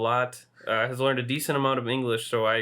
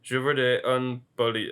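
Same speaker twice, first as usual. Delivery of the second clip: put-on French accent. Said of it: "My exact words were".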